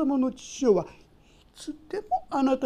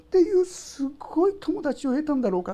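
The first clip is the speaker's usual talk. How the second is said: tearful wonder; 5 semitones higher than usual. Pretend. Betrayed friend still forgiven.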